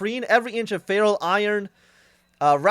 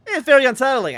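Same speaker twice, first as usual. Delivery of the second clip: louder, higher, near-hysterical protest; hysterical insisting; 6 semitones higher, 6 dB louder than usual. A narrator's reading. Unsettled traveller protesting to Fogg, louder and higher. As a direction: push it out, rattled and shrill with nerves. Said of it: "I insisted, feeling rather hysterical".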